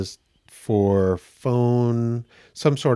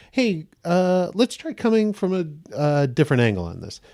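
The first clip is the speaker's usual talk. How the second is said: lightly raised, kind director's note; gentle suggestion; 5 semitones higher than usual. Retold or imitated. What the casting director could have said kindly, gentle. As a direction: soften the correction like a patient coach. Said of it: "she could have just said".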